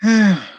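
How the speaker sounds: loud, heavy sigh; exasperated sigh. Real, not acted. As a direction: let out a real sigh of exasperation. Fed up with repeated oversharing.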